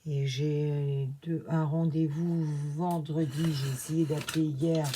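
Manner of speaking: slight lisp from new dentures; lisping s sounds, slushy sh for s. Real, not acted. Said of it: "Je zozote un petit peu".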